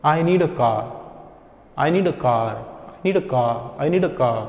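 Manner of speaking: car fading to "kaa", no r; vanishing R. Shown as a demonstration. Teacher drills the final step, vanishing R. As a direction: let the r of car disappear. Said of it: "उस र को गायब कर दो".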